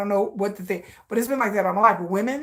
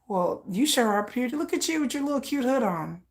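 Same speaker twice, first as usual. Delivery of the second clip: lilting compliment that climbs higher; flirty cooing; 4 semitones higher than usual. Acted. Woman admiring a shy stranger in a hoodie, flirty cooing. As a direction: coo over someone you fancy, lightly put on.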